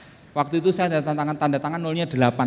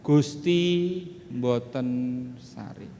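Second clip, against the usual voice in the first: solemn Javanese saying; 4 semitones lower, much slower than usual. Acted. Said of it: "filosofi Jawa yang mengatakan".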